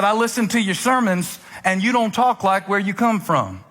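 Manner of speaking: imitated Southern lady, taking him to task; retold low-country Southern accent; deep Southern accent. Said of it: "She had a deep Southern accent".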